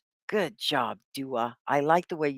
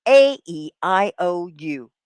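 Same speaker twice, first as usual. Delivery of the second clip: slow drill; 6 dB louder than usual. Shown as a demonstration. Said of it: "I want to hear you".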